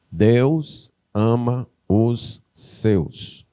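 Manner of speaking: drawn-out, every word of "Deus ama os seus" stretched; preacher's slow solemn emphasis; very slow and weighty. Shown as a demonstration.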